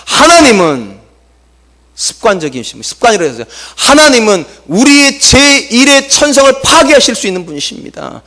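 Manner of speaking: usual speaking voice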